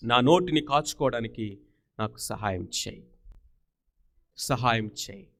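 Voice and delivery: low, subdued mock prayer; prayerful plea. Preacher modelling a prayer asking God's help, quietly pleading. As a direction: model a humble plea to God, pitched low.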